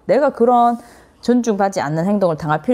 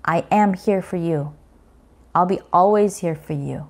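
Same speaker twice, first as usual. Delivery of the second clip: slow reassuring; much slower than usual. Shown as a demonstration. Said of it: "심리적인 지지인 거죠".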